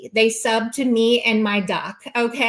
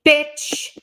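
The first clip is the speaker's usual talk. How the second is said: 1 high exclaim; 6 semitones higher, 4 dB louder than usual. Real, not acted. Rant aimed at critics.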